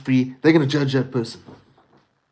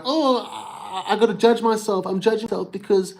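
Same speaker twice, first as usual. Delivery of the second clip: mocking self-judging inner voice; 4 semitones higher than usual. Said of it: "a negative delusion of like".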